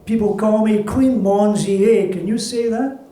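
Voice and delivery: lightly voiced older woman holding court; a touch of a proud old accordion player; old accordionist woman. Accordionist introduces herself.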